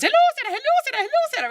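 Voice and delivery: high, loud overlapping hellos; eager relatives. Retold or imitated. Greeting her in Maryland, high and loud. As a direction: mimic the crowd of excited relatives. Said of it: "You know the ones".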